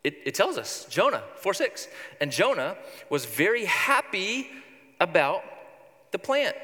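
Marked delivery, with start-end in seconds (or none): 2.2-6.5 happy read with a rising, lifted ending; bright reading. Shown as a demonstration. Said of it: "Jonah's really happy".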